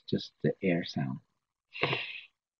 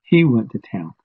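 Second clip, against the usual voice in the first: a corrective insistent voice, louder; correcting teacher; 3 semitones higher, 6 dB louder than usual. Retold or imitated. Teachers correcting the speaker, firm and louder. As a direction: correct him firmly, he not she. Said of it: "they kept saying".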